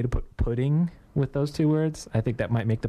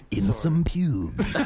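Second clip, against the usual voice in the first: very slow trailer parody; movie guy voice; much slower than usual. Acted. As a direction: draw it out like a trailer title. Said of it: "I love the movie guy voice".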